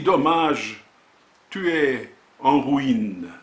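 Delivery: measured poetry reading with deliberate pauses; poem recitation. Acted. Poet presenting a volume of words and images, reciting. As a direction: recite in short, separated phrases, letting titles stand alone.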